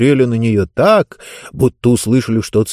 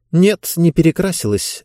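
curt; 7 semitones higher than usual. A narrator's reading. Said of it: "отрезала Диба".

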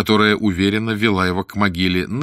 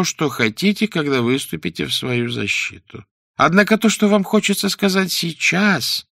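plaintive judge; 6 semitones higher than usual. A narrator's reading. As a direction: gently reprove in a high plaintive voice. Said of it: "мягким, даже жалобным голосом". (высокий жалобный голос судьи)

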